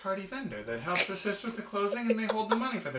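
lightly voiced, rattled-off canned answer; templated stock answer. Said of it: "the templated answer".

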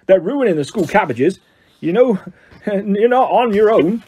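lightly voiced growling gamekeeper; mild growl, breaking into a laugh; Hagrid growl. A narrator's reading. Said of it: "growled Hagrid".

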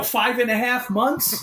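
slow, high disbelief; incredulous. Retold or imitated. To the buddy about the prank, slow high disbelief. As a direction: drag it out in disbelief. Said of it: "I go".

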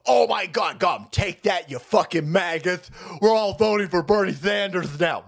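lightly hammed-up gloating crow; mock gloating heckler. Mocking the other side for cheering a gotcha, gloating caricature.

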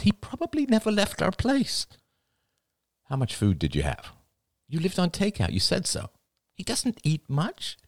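father character, arguing. Acted. Father persuading daughter the man couldn't survive, pleading. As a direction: voice a father reasoning aloud, pitch climbing.

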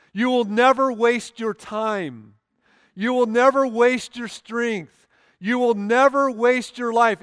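climbing refrain on never; building emphasis on never. Acted. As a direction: hammer the word never harder each line.

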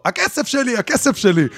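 high, mock cry of a woman chasing; imitating a woman calling after him for her money; chasing woman's cry. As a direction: pitch way up, imitating her plea. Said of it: "רצה אחריו ואומרת לו".

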